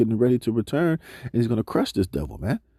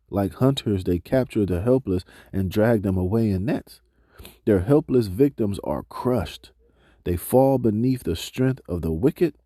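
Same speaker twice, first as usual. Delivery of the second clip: slow, measured reading of scripture; slower than usual. Acted. Preacher reading scripture to the congregation, slow and measured. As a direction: read the verses out to the congregation, slowly. Reads scripture passage aloud.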